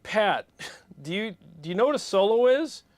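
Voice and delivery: retold scolding. Retold confronting sound guy.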